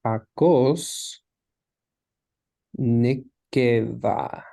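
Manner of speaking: Hakos, long pause, then a drawn-out Nekeva; slow, spaced-out reading of Hakos ... Nekeva; word by word. Shown as a demonstration. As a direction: sound out Hakos Nekeva very slowly. Teacher sounds out Hebrew phrase.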